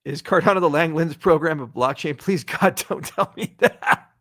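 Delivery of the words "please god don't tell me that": laughing plea. Real, not acted. Laughs at absurd chat question.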